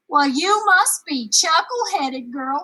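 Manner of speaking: Ma scolding her daughter. Acted. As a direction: give her a scornful scolding.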